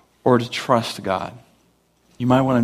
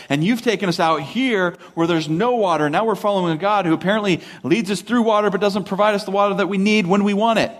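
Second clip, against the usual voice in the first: rising mock-indignant rant; grumbling complaint; 5 semitones higher than usual. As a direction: pile up the grievances, higher as you go. Acting the Israelites' grumbling at Moses.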